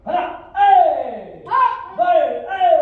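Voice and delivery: explosive high kiai; sharp, loud combat yell; martial arts shout. Real, not acted. Instructor demonstrating a kick to the class, shouting.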